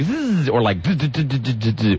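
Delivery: buzzing radio zap noises; imitated production effects. Host demonstrating tracks on a production disc, imitated buzzes. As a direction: mimic canned sweeper buzzes. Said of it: "a hundred different tracks of".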